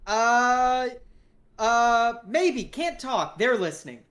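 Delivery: high, jittery, paranoid voice; paranoid caller. Acted. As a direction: sound scared they're overheard. Hank paranoid whisper on phone.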